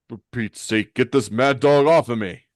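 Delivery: loud plea to get him off; exasperated, rising to a shout; exasperated yell. Acted. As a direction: call out while being mauled. Villain attacked by his partner.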